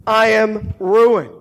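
slow, heavy cry of ruin; anguished lament. Acted. Isaiah lamenting before God's glory, slow and heavy. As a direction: let it fall slow and heavy. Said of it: "He cried out".

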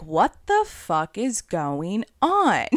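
slow, dragged-out frustrated question; exasperated, drawn-out complaint. Retold or imitated. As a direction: stretch it out, fed up and baffled. Years of frustration over dating.

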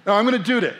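put-on high, loud little-girl insistence; stubborn toddler claiming the job. Dad repeating his daughter's line, high and loud. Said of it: "she pushes me away and she goes".

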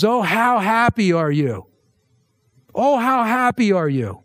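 high, drawn-out exclamation of happiness; joyful exclamation. Acted. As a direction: proclaim it slowly with rising wonder, then fall. Preacher renders the blessing as an exclamation.

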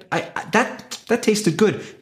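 a hungry customer asking for another bite; delighted consumer. Retold or imitated.

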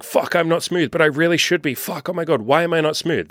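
high, anxious freaking out over not being smooth; panicked self-doubt. Retold or imitated. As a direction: sound like you're spiralling about being awkward. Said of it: "What's unsmooth is you saying".

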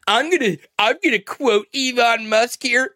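mimicking a halting billionaire's stop-start delivery; Elon Musk impression. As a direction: stumble into it like a hesitant tech billionaire. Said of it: "That's literally how he says it".

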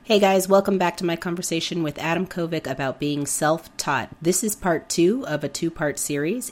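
hoarse from a cold; talking through a sore throat; sick voice. Real, not acted. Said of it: "Forgive my voice, I'm a little sick".

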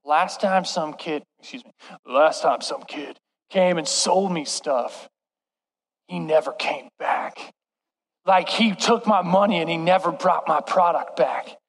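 lightly voiced crabby old woman; grumpy old woman. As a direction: complain like a suspicious old neighbor. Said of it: "she was like".

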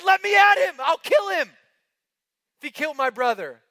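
very high, loud, raging cry; mock furious shout. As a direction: yell it like you want revenge. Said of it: "I would have said".

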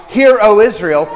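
ringing prophetic cry. Retold or imitated. Moses crying out to the gathered people, loud and ringing. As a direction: call it out to the whole nation. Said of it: "When Moses issues the cry".

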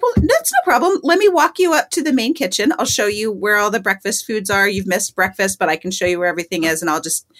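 mother him a little; motherly. Retold or imitated. Greeter soothing the lost hippie, lightly motherly. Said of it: "I wanna mother him".

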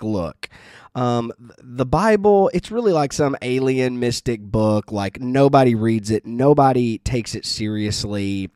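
a lightly voiced snooty professor scoffing; condescending. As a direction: talk down to him like a child. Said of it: "very condescending".

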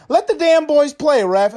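hammed-up call to let them play; quoted yell. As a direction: bark it at the referee like a movie coach. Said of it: "like Denzel Washington says".

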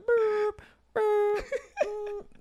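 high beeps of a truck backing up; reversing truck beep. Pretend. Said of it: "it should be like".

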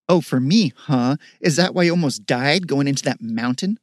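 loud, bitter sarcasm; angry accusation. Acted. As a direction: throw it back at him. Sister accuses brother.

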